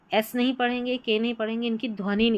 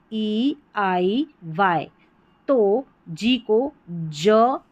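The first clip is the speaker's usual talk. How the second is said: slow rule demo; much slower than usual. Shown as a demonstration. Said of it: "की ध्वनि देता है".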